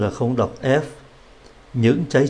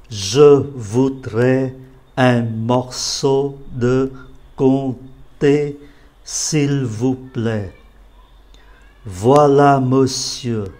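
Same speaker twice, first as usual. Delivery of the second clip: read aloud. Shown as a demonstration. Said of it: "Bây giờ bắt đầu nói to này". (đọc to đoạn hội thoại)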